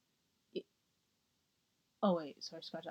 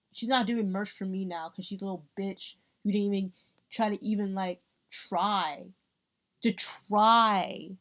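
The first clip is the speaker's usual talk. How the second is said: mock triumphant rant; 3 dB louder than usual. Ranting about the merch girl who denied her, gloating. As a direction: gloat like a villain boss.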